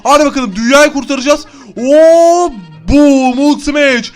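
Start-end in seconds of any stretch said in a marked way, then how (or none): 1.8-4.1 hammed-up Hulk roar, higher and louder; Hulk smash. Gamer playing Hulk, mock roar.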